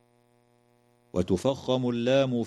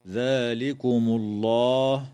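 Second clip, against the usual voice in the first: recited verse; slower than usual. Shown as a demonstration.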